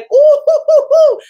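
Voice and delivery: high, loud cackling hoots; laughing whoops. Real, not acted. Wife laughing about her husband getting on her nerves, high hoots. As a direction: laugh it out, exasperated.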